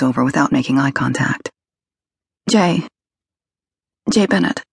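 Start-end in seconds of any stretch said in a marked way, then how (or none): 2.5-4.6 put-on tearful young woman. A narrator's reading. Kelly voiced, tearful.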